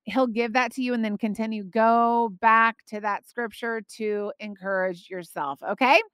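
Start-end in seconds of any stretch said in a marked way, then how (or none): 1.6-6.0 talking out of breath; breathless after long talk. Real, not acted. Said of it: "I'm out of breath".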